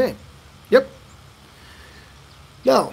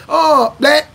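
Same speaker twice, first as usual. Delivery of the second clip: high, eager mistaken guess; a hint of a puzzled listener guessing; confused local; 7 semitones higher, 6 dB louder than usual. Local mishearing his name, high and eager. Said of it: "I'm like".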